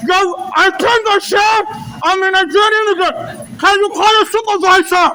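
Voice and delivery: outraged, won't back down; angry shouting. Real, not acted. Yelling at laughing officers.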